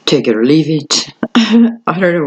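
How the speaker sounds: high, playful sing-song voice; funny put-on voice. Tarot reader teasing her viewers in a high put-on voice. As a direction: toss it off in a silly voice. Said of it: "why am I talking like that?".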